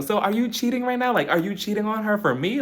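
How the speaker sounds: mildly incredulous, high-pitched questioning; playful imitation of a suspicious date; mock interrogation.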